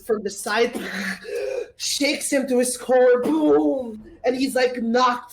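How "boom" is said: imitated thunder boom. Game master imitates the thunder.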